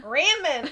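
RAMEN as "RAM-en", high, loud and laughing; short "a" as in ram on ramen, cracking up; self-mocking mispronunciation. Echoing friend about own slip, laughingly mispronounced ramen. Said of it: "the way that I did".

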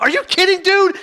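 high, loud, incredulous outburst; retold unloading. Friend scolding cheeseburger eater for a fasting colleague, retold unloading. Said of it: "Anish just unloads".

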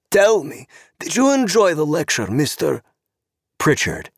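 high, purring voice of a sharp-clawed society woman, mocking; sweetly catty, like an angry cat smiling; sly socialite. Zorena voiced by narrator.

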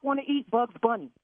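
high, indignant questions; real anger. Real, not acted. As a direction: jab each question at him. Prank victim furious at caterer.

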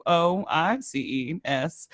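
spelling slowly, holding back laughter; trying not to laugh. Real, not acted. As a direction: fight the giggles while spelling. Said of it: "I'm trying to be professional".

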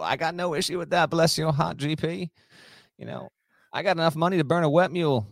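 folksy Southern-accent put-on. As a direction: lay on a mock Southern accent. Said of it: "I'm gonna stop with this accent".

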